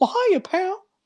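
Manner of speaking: high cartoon mouse voice. Asked to try a cartoon voice, the speaker shows a Mickey Mouse voice. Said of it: "Mickey Mouse is".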